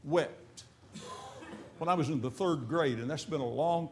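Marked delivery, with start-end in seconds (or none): 0.0-0.6 slow solemn reading. Shown as a demonstration. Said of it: "shortest verse in the Bible".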